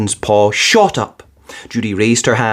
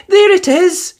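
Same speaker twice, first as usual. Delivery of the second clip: high happy shout; excited cry. A narrator's reading. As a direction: point it out with delight. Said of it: "cried Missus Brown".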